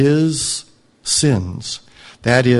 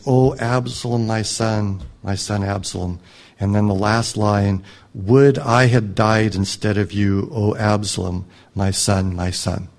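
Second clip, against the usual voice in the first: weeping lament; 3 semitones lower than usual. Retold or imitated. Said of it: "uh, weeping".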